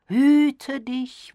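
high, loud cry of warning. A narrator's reading. Diana warns Hayden off as he approaches, loud warning. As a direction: sound a forceful alarm at a high pitch. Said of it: "warnte sie".

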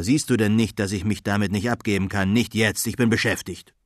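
put-on gruff, impatient old wizard brushing him off; grumpy wizard. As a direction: irritably wave away a pest. Wizard snaps at Rover. (ungeduldiger Zauberer)

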